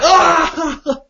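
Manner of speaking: re-enacted helpless outburst; high laughing cry. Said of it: "like, laughing. I'm just, like".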